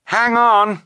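high-pitched cry to hold on; sharp high warning cry; urgent cry. A narrator's reading. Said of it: "Violet cried".

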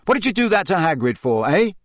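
quick, mildly furious demand. A narrator's reading. Harry confronting the journalist over Hagrid, fast and angry. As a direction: fire the question fast in anger. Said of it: "said Harry furiously".

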